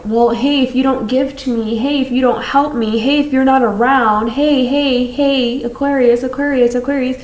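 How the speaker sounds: a hint of clingy friends calling out; needy people calling. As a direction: pester them for attention.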